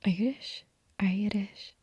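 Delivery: testing out an Irish accent; attempted Irish accent. Shown as a demonstration. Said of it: "I can't do it".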